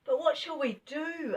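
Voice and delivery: put-on high, anxious girl's question; Bessie in despair. A narrator's reading. Bessie asks the rabbits, high and anxious. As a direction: plead helplessly. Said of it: "asked Bessie in despair".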